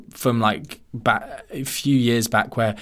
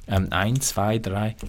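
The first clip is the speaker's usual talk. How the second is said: mock German counting; 4 semitones lower, 4 dB quieter, slower than usual. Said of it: "German, good".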